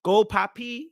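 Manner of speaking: high-pitched supportive cheer. Acted. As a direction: cheer your partner on from the crowd. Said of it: "scream from the hilltops".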